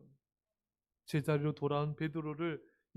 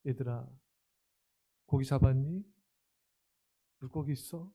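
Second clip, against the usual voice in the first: warm greeting; 3 semitones lower than usual. Acted. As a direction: welcome them gently. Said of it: "제자들을 따뜻하게 맞아주십니다".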